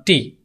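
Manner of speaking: টি said as the letter's name; টি with an ee vowel, not the bare sound. Shown as a demonstration. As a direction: say টি like the alphabet letter.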